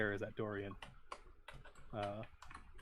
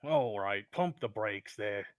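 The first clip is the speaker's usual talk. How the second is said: loud start, slowing down; objecting; 7 dB louder, slower than usual. Acted. Dorian answers the kobold's insult, objecting. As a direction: firmly tell them to ease off.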